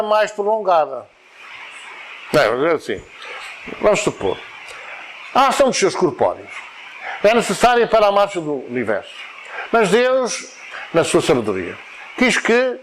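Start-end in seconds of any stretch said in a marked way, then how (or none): 5.3-12.8 short halting phrases with pauses after UNIVERSO, DEUS and QUE; imitating wrong reading. Teacher showing how many people read, broken up with stops. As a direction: mimic a reader stopping in the wrong places. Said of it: "há muita gente lê assim".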